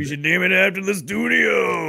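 hammed-up French accent, shouted high. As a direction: shout it like a mock French developer. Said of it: "that's a really good French accent you're doing there".

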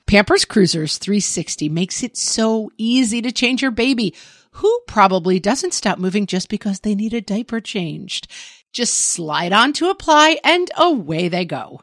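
upbeat podcast ad read. Acted. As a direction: sell it like a radio spot. Reads a Pampers ad.

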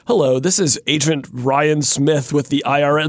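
flat automated robot voice. Retold or imitated. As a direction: read it like a robocall. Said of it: "but, like, in robot voice".

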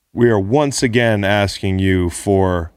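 slow, plain Bernie Sanders imitation; lightly voiced Bernie appeal; Bernie Sanders meme voice. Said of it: "in my Bernie Sanders meme voice".

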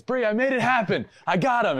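high, excited boast; imitating excited teammate. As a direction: crow it like you just won. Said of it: "Bri, and goes".

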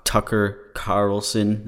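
slow, careful sounding-out of "Tucker Carlson"; careful slow try. Real, not acted. Struggling with a tongue-twister name, slow and careful. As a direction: say "Tucker Carlson" slowly, testing each syllable. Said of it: "that's like a tongue twister to say".

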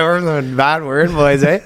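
slow mock Canadian; lightly put-on Canadian accent. Officers announce themselves at his door, Canadian accent. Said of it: "but it was so Canadian".

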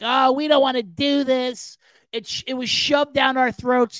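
slow whiny complaint, half-shouted at the end; mock whining Jets. Mocking the Jets whining about Hard Knocks, slow and whiny. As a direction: sulk like a team forced onto TV. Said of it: "the Jets were whining from the get-go".

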